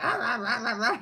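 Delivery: loud, rapid imitated dog barks; male husky mating cry. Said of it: "he's like".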